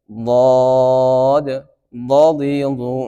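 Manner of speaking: drawn-out letter name then vowel drill; teacher sounding out the Arabic letter dal; Arabic letter recitation. Shown as a demonstration. শিক্ষক ছাত্রদের হরফ উচ্চারণ শেখাচ্ছেন, স্পষ্ট করে. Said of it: "দদের মধ্যে সবচেয়ে বেশি দাঁত ব্যবহার হয়".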